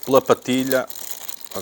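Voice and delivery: ordinary talk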